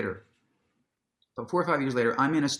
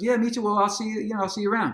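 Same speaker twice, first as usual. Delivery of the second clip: lightly voiced impression of a singer, friendly; 7 semitones higher, much faster than usual. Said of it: "He goes".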